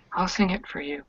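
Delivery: shaky hollow voice. Acted. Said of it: "in this shaky, like, hollowed voice".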